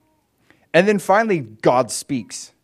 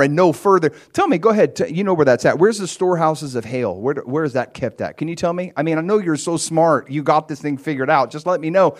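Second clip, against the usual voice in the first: mock-sarcastic challenge, a bit louder; sarcastic God; 4 dB louder than usual. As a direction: needle him like he thinks he's so smart. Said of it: "God is extremely sarcastic".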